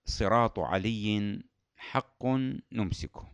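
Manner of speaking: slow, deliberate mnemonic phrase; teaching a memory phrase. Shown as a demonstration. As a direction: spell out the phrase clearly. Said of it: "كلها في جملة".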